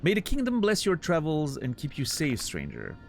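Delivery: theatrical flea showman voice; grandiose flea circus showman. Acted. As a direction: bless them like a grand ringmaster. Voices flea master dialogue.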